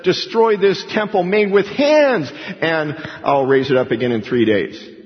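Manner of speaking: mock false witness. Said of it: "the false witness says".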